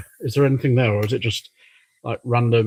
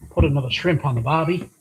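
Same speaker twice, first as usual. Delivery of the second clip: light mock Australian accent, slightly raised; a tourist's playful Aussie impression; 3 semitones higher than usual. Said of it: "That's my best Aussie accent".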